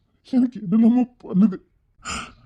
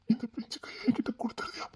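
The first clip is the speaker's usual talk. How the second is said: tender whisper; 2 semitones higher, 14 dB quieter than usual. Acted. Begging the child for her hand.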